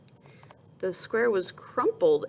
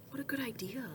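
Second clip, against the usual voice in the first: quick soft gasp then hushed praise; delighted gasp; 4 semitones higher, 10 dB quieter, much faster than usual. Acted. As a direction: gasp in wonder at the picture. Teacher gasps in delight at page.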